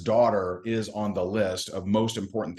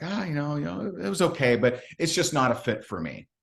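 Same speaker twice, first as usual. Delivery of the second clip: higher, hesitant shrug of a voice; imitating a hesitant prospect; 6 semitones higher than usual. Prospect brushing off the pitch, imitated higher and hesitant. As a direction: mimic a noncommittal prospect brushing it off. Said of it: "And he's like".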